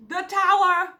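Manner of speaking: high, loud "The Tower"; startled. Real, not acted. Reader startled by a card falling out. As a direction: blurt the card out in shock.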